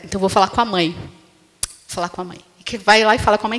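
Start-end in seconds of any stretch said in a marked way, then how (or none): 0.9-2.4 much softer, slower muttered repeat; muttered aside. Retold or imitated. Child muttering after dad says no, much softer and slower. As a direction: say it under your breath, sulking, slower. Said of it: "não vai aquela história".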